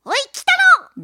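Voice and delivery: put-on high, loud old-man squawk; 目玉の親父. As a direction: shout up like a tiny old father. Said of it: "目玉の親父ね". (目玉の親父の声まね)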